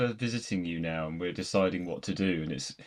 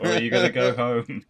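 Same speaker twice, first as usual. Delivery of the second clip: mock Van Damme speech; 5 semitones higher, 3 dB louder than usual. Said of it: "I'm gonna give you that speech".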